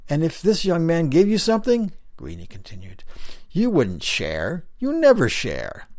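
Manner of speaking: another stone face calling out loudly to a newcomer; a loud call from further down the wall; Greenie calling out. Acted. Greenie scolds Big Lips.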